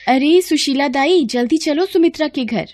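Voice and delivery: high-pitched, pressing summons; urgent calling out. Acted. Villager fetching the midwife for a delivery, calling urgently. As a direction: call her to come at once.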